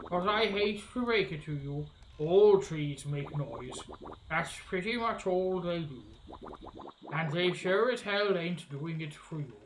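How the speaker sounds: grumbling alligator witch. Acted. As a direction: stretch each word as a weary swamp witch.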